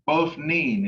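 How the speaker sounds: "Pofnin" with a long E before the final N. Shown as a demonstration. Teacher shows student the adverb ending, long E. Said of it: "pronounced with a long E sound".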